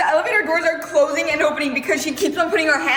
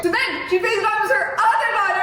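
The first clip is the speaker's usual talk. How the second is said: ordinary delivery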